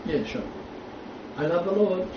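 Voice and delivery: soft, mildly mocking piety; mock pious believer. Teacher imitating complacent churchgoers, mock pious. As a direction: imitate a contented believer, quietly. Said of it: "They're just happy to say".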